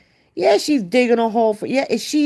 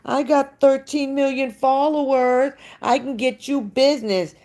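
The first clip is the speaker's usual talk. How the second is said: a mock boast, pitched up; show-off voice, lightly put on; higher, mocking bragging tone; imitating Bobby; 4 semitones higher than usual. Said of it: "Bobby's like".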